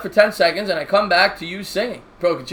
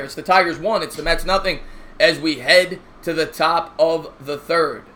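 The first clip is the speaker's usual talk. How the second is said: play-by-play announcer. Acted. Live play-by-play call.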